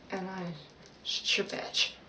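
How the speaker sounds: breathy whisper on stretch. Shown as a demonstration. Demonstrating her meditation stretch in a whisper. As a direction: let the word go out on a whisper. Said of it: "Let me give you guys a sample".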